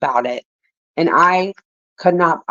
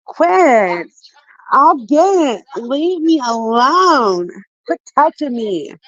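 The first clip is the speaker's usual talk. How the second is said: real exasperation; 5 semitones higher, slower than usual. Real, not acted. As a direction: fend them off, stretching out the words. Fending off someone nearby while reading.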